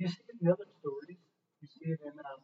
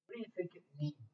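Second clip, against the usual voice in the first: whispered question; 5 dB quieter than usual. Real, not acted. Pastor asks quietly.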